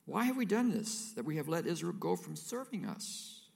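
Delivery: exasperated servants. Acted. Pharaoh's men bemoaning letting Israel go, exasperated. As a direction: wail over the lost workforce.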